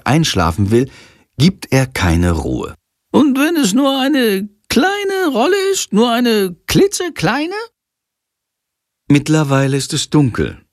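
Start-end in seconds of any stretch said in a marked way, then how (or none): 3.1-7.6 high, eager little bat voice; a tiny excited bat pitching his idea; a small bat superhero begging to join the play, pitched high; little bat hero. A narrator's reading. Shandor begging at night.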